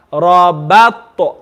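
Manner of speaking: Rabat letter by letter, t echoed; slow reading. Shown as a demonstration. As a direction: follow each letter of Rabat, smiling the ba. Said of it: "read the word slowly".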